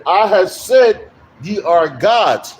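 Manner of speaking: drawn-out, deliberate verse quotation; scripture quotation. Acted. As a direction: quote the verse slowly, weighting each word. Quotes the verse aloud.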